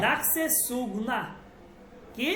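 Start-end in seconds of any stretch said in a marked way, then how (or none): 0.1-1.2 সুগনা with the nun nasal but not sounded; slow Urdu reading with a light nasal; silent noon. Shown as a demonstration. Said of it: "এখানে নুনের উচ্চারণ হবে না".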